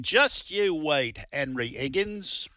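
slow, hammed-up bad British accent; terrible British accent. Host quoting the musical in a bad British accent. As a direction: put on a clumsy English accent, slowly. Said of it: "pretty terrible British accent".

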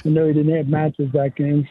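usual speaking voice

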